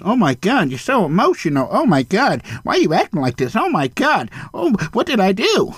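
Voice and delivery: sing-song mock innocence; mocking whiny voice. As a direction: play the fake victim, whining. Mocking a passive aggressive person.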